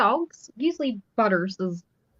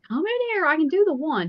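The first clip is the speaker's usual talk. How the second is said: high-pitched mock yell for help; retold yelling; 8 semitones higher than usual. Wife calling her husband over about the lizards, retold yelling. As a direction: call out higher, as if yelling for a spouse. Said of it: "I'm, like, yelling".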